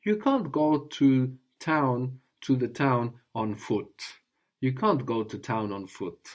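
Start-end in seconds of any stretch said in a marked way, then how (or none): 0.0-4.0 slow, careful teaching phrase; slow model phrase. Shown as a demonstration. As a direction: lay it out slowly for the student. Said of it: "So how would you say".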